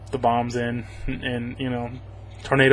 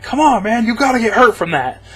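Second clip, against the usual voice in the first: higher, louder, incredulous objection; exasperated protest; 4 semitones higher, 4 dB louder than usual. Retold or imitated. Reviewer yelling at the hero's stunt, exasperated and loud. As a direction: call out the stunt like a fed-up viewer. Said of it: "I'm like".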